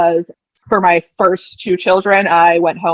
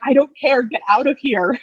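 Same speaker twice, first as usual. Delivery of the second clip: retold yell at toddler; 6 semitones higher than usual. Mother in labor telling her toddler to get out, mock yelled. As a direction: snap back at the kid in half-mock exasperation. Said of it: "I'm just yelling at her to get out".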